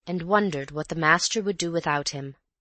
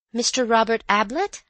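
polite maid; 6 semitones higher, 5 dB louder than usual. Acted. Maid answers the visitor.

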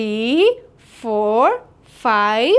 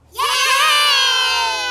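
excited cheer; 9 semitones higher than usual. Acted. Kids cheer on cue.

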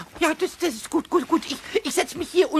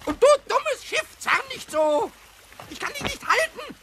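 panicked scolding; 5 semitones higher than usual. Acted. Pumuckl struggling with the pulling boat, panicked yelling. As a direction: scold it while losing your grip. Boat pulls him away.

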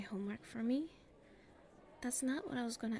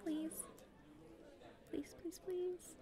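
pleading; 6 semitones higher, 9 dB quieter, slower than usual. Acted. Begging to go somewhere private.

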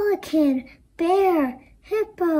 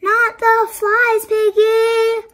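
exasperated shout; 7 semitones higher, 7 dB louder than usual. Acted. Gerald exasperated at Piggy.

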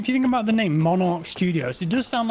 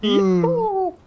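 building cheer; 11 semitones higher, much slower than usual. Real, not acted. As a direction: wind up and burst into a whoop.

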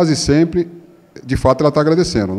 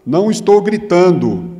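slow, raised-voice denial of shouting; negando que grita; 5 semitones higher, 4 dB louder, slower than usual. Acted. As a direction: insist slowly, pitched up, on the edge of shouting. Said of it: "Sim, estou gritando". (negação lenta, quase gritando)

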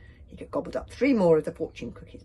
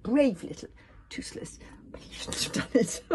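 whisper; 5 semitones higher than usual. A narrator's reading. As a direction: whisper it fondly. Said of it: "narrator whispering aside".

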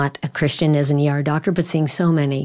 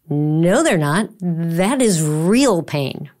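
slow insistent son; much slower than usual. Retold or imitated. Chris insists his pain is real.

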